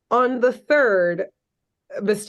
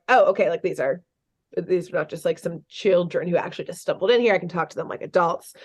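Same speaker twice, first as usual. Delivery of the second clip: lower, matter-of-fact retold hero; back to normal voice; 4 semitones lower, faster than usual. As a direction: drop the baby talk and speak as to adults. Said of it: "normal voice".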